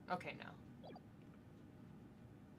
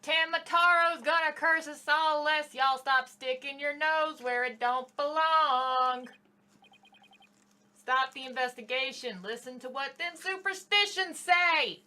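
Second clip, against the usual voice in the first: folksy villager; 2 semitones higher, 4 dB louder than usual. Acted. Villager warns again.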